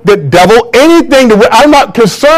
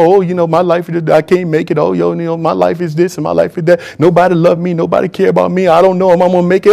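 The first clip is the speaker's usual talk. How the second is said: softer, whiny imitation of a defeated believer; mock complaining Christian; 4 dB quieter than usual. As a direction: lightly mimic a self-pitying moaner. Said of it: "walking around talking about".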